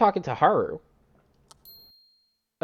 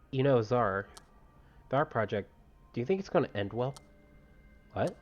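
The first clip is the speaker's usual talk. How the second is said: story dialogue read-aloud; 8 dB quieter than usual. Acted. Voices game dialogue quietly.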